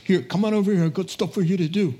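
lightly put-on New York accent; brisk New York boss summoning help; casual, quick New York accent. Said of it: "Jesus is not from New York".

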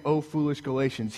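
the meek version of "Oh, foolish Galatians"; soft gentle rebuke. Shown as a demonstration. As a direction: say "Oh, foolish Galatians" softly, like a sigh. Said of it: "don't hear me saying".

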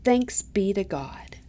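slow, breathless whisper; hushed congregational reply; whispered response. Acted.

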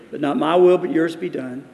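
surrendering prayer. Acted. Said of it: "he prayed the second time".

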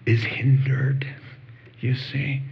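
hushed. Real, not acted. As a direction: drop to a whisper for weight. Sermon climax on withering tree.

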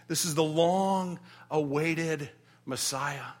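slow, reverent declaration; solemn revelation. Acted. The elder revealing the Messiah to John, slow and reverent. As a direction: let it land with awe.

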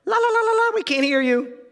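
high, loud sing-song la la la; mocking shout. Crowd drowning out Stephen with a loud mocking chant. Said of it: "began shouting".

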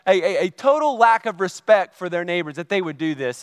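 worked-up, critical complaining; retold indignation. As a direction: recount your outrage with emphatic words. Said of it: "getting myself all worked up and criticizing".

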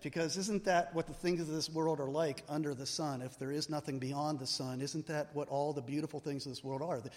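ordinary talk

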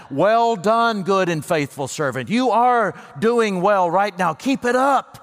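a hint of a proud master blessing his servant; Jesus praising. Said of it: "Hearing Him say right now".

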